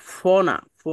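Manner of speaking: "ফ" as a hissed f with lips apart; wrong open-lipped f. Shown as a demonstration. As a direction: show the wrong "ফ", an English f. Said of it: "দুই ঠোঁট একসাথে করে যেভাবে প বলেন". (ঠোঁট খোলা রেখে ভুল "ফ")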